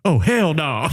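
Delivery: a mild imitation of an involuntary blurt; Tourette's outburst. Retelling the woman's Tourette's tic, mildly imitated outburst. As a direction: let it pop out sharply with a falling end. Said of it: "that was the Tourette's".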